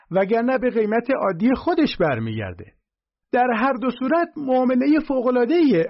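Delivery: high, loud, breathless sales pitch; loud, high squeaky salesman yelling his deal; excited shout. A narrator's reading. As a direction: shout the pitch like a cornered hustler. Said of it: "فریاد زد".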